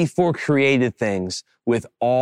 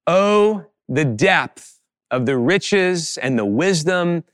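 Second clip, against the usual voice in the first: measured, reverent reading with long pauses; scripture reading. Acted. Pastor leading congregation through Romans eleven, solemn reading. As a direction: read it out solemnly for all to follow.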